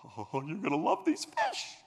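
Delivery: a lightly voiced, slow enthusiastic salesman; eager shop owner. Shop owner to a caller, lightly voiced slow enthusiasm. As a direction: sell it slowly like a fish lover. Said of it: "this is exactly what you'll hear".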